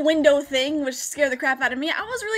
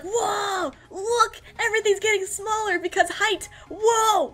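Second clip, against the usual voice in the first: put-on higher, childlike awe; lightly voiced amazement at takeoff; mock wonder; 5 semitones higher, slower than usual. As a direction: gape at the view like a kid. Marveling out the plane window.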